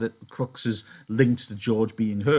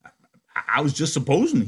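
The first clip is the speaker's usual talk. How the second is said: stammering fear; 4 semitones higher, 5 dB louder, faster than usual. Acted. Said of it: "he said".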